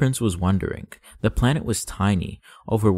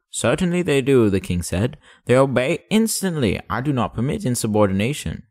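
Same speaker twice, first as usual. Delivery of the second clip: boastful king; 3 semitones higher than usual. Acted.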